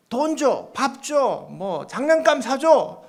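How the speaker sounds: put-on high-pitched childlike demands in a list; acted child's string of requests; demanding little kid. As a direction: lightly play a kid pestering mom. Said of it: "한 꼬마가 엄마한테".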